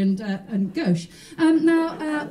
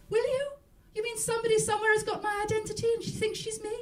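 indignant; 10 semitones higher than usual. Retold or imitated. Wife on phone, indignant.

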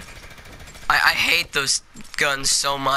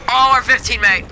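excited, higher Australian accent; Australian accent, pitched up in excitement; 7 semitones higher, 4 dB louder than usual. Real, not acted. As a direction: call it out like a thrilled Aussie. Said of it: "like, an Australian accent".

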